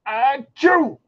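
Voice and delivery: mock sneeze. Acted sneeze.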